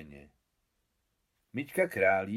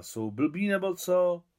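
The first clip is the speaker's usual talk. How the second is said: scoffing retort; 9 semitones higher, 5 dB louder, slower than usual. A narrator's reading. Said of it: "odporoval Miťka".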